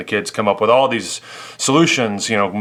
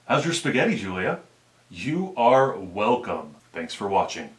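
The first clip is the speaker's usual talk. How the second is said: dad's voice. Shown as a demonstration. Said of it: "Let's do Dad's voice first".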